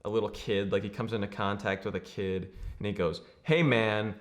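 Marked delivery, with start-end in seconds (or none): 3.4-4.1 higher-pitched, hammed-up refusal; mock brush-off. Reluctant movie hero to a kid, mock brush-off. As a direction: push the kid away, playfully overacted.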